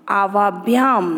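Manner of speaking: आवाभ्याम low and drawn out; pronunciation demo. Shown as a demonstration. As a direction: model आवाभ्याम syllable by syllable. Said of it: "मैं आप लोगों को सिखाती हूँ". (आवाभ्याम का स्पष्ट, नीचे सुर में उच्चारण)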